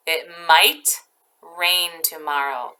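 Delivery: slow it down for the class; careful repeat so kids catch it; slow example sentence. Shown as a demonstration.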